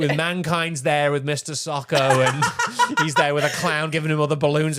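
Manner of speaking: laughing while talking. Real, not acted. Podcaster recalling a hospital wrestling skit to co-host, laughing. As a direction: tell it through bursts of laughter.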